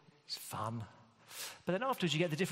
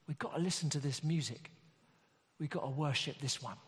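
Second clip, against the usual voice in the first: put-on cabbie's London accent, pitched up in awe at the start. London cabbie marvels at the music and calls others to worship, London accent. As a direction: play an awestruck London cabbie. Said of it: "I can do a London accent, cabbie".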